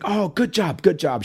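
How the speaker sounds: lightly imitated German accent, pitched high; high-voiced retold praise with a hint of German accent; mock European accent. Old lady approves of the dad, feigned European accent. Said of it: "like, really thick European accent".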